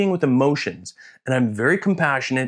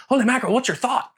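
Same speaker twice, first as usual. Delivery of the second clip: laughing; 12 semitones higher, faster than usual. Retold or imitated. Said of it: "They're like".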